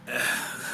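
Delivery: short, low sigh; weary sigh. Acted. Armourer excusing his worker to the General, weary sigh. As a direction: let out a low, apologetic sigh.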